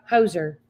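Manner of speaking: Hosier joined up slowly as HOH-zher; sounded-out pronunciation. Shown as a demonstration. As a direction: put "ho" and "zer" together into two-syllable Hosier. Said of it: "I see ho and I see zer".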